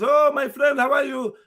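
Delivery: lightly voiced cheery shop owner welcoming a regular; friendly shopkeeper. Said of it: "And he says".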